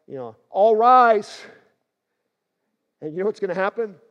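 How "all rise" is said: loud, high commanding shout; yell. Retold or imitated. Jesus commanding the dead to rise, loud shout. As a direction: call it out like a general to troops. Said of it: "Jesus is gonna just yell".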